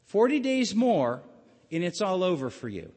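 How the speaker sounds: a preacher booming the prophet's warning; proclaimed loudly. Shown as a demonstration. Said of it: "The profound words are this".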